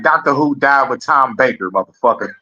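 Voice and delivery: a hint of a gruff old-school fan. Streamer imitating an old-school Doctor Who fan, lightly voiced. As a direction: lightly voice an old head laying down the law. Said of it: "if I was an old school nigga, I'd be like".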